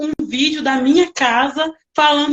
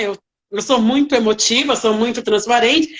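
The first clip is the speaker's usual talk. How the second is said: usual speaking voice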